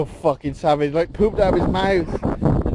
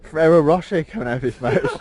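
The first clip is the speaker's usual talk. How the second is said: laughing; 3 semitones lower, 4 dB louder than usual. Real, not acted. Laughing while describing.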